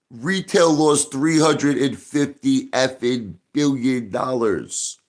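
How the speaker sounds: high, slow, emphatic outburst of anger; furious. Real, not acted. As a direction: spit out each word, truly enraged. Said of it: "I am friggin' so furious".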